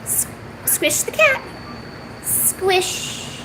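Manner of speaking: hushed coaxing to the cat; whispered cue. Shown as a demonstration. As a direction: whisper "squish the cat" softly. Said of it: "repeats cue".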